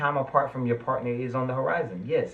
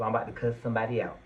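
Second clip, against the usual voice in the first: rushed, worked up; faster than usual. Real, not acted. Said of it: "I'm getting worked up".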